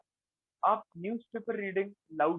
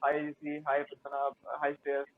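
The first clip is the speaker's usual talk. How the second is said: quick run of greetings; very fast speech; 2 semitones lower than usual. Shown as a demonstration. Trainer greeting friends as a fast-talk example, hurried. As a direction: rattle off the names without lingering. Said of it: "बहुत तेजी से बात कर रहा हूँ".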